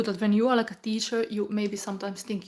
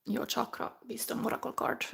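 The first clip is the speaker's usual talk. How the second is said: whisper; 2 semitones higher, 5 dB quieter than usual. Real, not acted.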